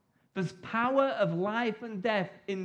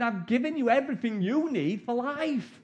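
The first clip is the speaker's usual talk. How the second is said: voicing God; 4 semitones higher than usual. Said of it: "God's looking at us going".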